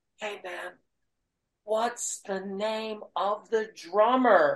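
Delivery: put-on whisper.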